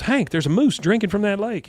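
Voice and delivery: high-pitched mock wife calling out; imitated excited wife. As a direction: exclaim it high, pointing out a sighting. Voices wife spotting a moose.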